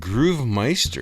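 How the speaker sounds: slow announcer drawl. Acted. Announcing guest nickname.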